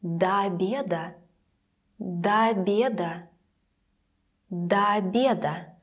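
"До обеда" with both о run together as "da-a"; long open a into "обеда" stressed on е; unstressed o. Shown as a demonstration. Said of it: "it will be unstressed".

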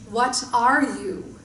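a touch of the booming creature; creature asking again. Acted. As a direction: repeat the question like a patient giant. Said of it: "it asked again".

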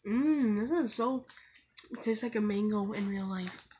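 talking with candy in mouth; savoring while speaking; chewing. Real, not acted. Seen 2: Boy put candy in mouth earlier; jaw and lips keep moving while tasting.

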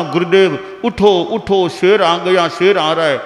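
retold urgent call. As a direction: shout for the guru to wake up. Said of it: "मैंने कितनी बार कहा".

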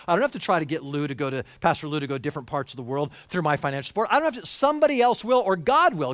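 loud, fast, mocking a tight-fisted believer; mock stingy excuse. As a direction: rattle off excuses like a cheapskate.

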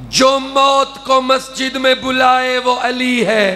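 declaimed verse; poetic recitation. Acted. Poet reciting verse on Ali to the majlis, declaiming. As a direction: deliver the couplet to the gathering.

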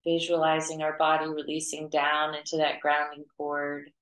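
even, unhurried meditation voice with long pauses; guided meditation. Acted. Teacher leading students to clear their auras, guided meditation. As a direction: guide them gently through it, pitch held level.

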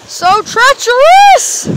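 slow, high, loud exclamation; exclaiming. Real, not acted. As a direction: drag it out as the rocks bite. Stumbling over sharp rocks.

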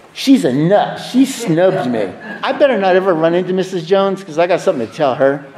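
petty, indignant grumbling with a laugh; mock grudge. Telling the room about Missus Jones, mock indignant. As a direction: sneer at the old enemies, half-joking. Voicing his old grudges mockingly.

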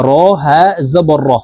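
র closed on a vowelless breath of h; silent ha ending. Shown as a demonstration. Teacher spelling out the stop form, র closed with h. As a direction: let the last র end in an h. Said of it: "এই হাকে সাকিন করতে হবে".

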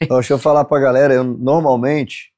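hoarse from a cold. Real, not acted. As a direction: speak with a sick, husky rasp. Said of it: "rouco mesmo".

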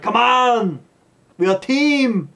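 rally the team in a hammed-up yell; mock rallying shout. Arnold yelling at his squabbling team, mock rallying shout. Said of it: "Arnold's like".

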